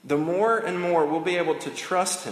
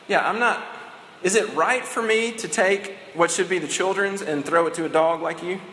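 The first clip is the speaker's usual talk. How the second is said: scornful retort, pitched up a bit; dismissive Jesus paraphrase; 3 semitones higher than usual. Retold or imitated. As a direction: toss the question off with mild disdain.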